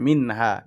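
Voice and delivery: "মিন হা" with a clear n, no nasal hold; clear izhar. Shown as a demonstration. Teacher demonstrates izhar, "মিন হা" with clear unheld n. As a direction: release the n in "মিন" straight into "হা". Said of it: "গুন্না সারা স্পষ্ট করিয়ে পড়তে হবে".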